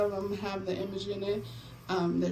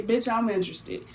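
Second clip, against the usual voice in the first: said with punchy emphasis on "Bitch"; emphatic; 2 semitones higher, 3 dB louder than usual. Shown as a demonstration. Telling viewers what to comment to enter the giveaway, emphatic. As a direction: show them how to say it with feeling. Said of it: "say it like that".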